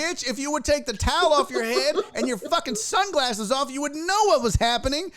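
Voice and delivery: exasperated rant. Retold or imitated. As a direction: vent at the clueless lady. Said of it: "It was like".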